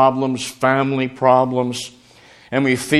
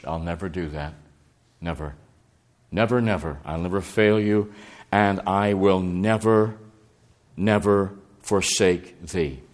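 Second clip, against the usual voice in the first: tender assurance; 3 semitones lower than usual. Acted. God's promise voiced, softly insistent.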